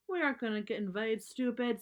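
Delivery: a lightly voiced bully cub, mildly mocking; scoffing cub. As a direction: toss off the insult with a touch of scorn. Too Tall scoffs at pals.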